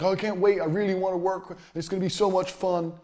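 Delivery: light mocking imitation of an eager newbie; giddy mock gush. Mocking a giddy newbie meeting clients, light gushing voice. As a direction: lightly ham up a giddy beginner. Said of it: "Don't be going to see clients and like".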